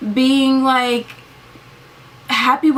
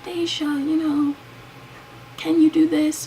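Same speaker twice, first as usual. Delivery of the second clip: calm voice; 6 semitones higher, 4 dB quieter than usual. Retold or imitated. Someone gently waking Deja, calm soft request. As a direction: ask softly as if waking someone kindly. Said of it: "you're talking in a calm voice".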